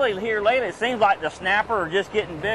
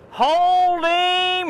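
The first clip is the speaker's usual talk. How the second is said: higher, louder urgent hold him; excited shout; 11 semitones higher, 4 dB louder than usual. Real, not acted. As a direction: yell it urgently. Fish fighting on line.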